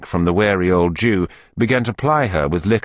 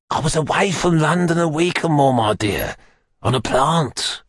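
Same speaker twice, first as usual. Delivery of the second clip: put-on high, wheedling old fence; Fagin, placating; 8 semitones higher than usual.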